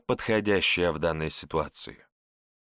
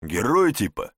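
nasty smirk; 4 dB louder than usual. A narrator's reading. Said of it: "мерзко усмехнулся тот".

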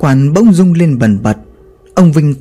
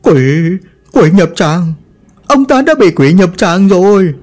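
mild alarm; 2 semitones higher than usual. Acted. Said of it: "hoảng hốt".

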